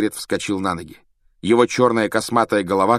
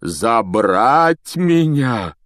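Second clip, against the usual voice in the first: slow, drawn-out disbelief; big man caught off guard; Hagrid stunned; 3 semitones higher, 6 dB louder, much slower than usual. A narrator's reading. Hagrid asking Fudge, slow stunned question.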